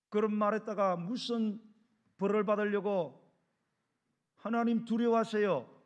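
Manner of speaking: loud, slow, measured admonition; stern warning. Acted. Believer warning a man who curses God, loud and stern. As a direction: press each word forcefully as a warning.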